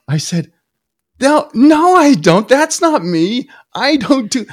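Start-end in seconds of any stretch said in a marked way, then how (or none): 1.2-4.4 high, loud protest tumbling out; blurting a panicked denial, higher and louder; flustered denial. Retold or imitated. Husband insists to his wife he doesn't do it, high loud flustered protest.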